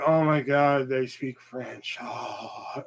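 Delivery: soft, breathy fan swoon trailing into a sigh; mock swooning. Mocking people who go crazy for accents, mock swooning. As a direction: melt slowly into a dreamy mock sigh.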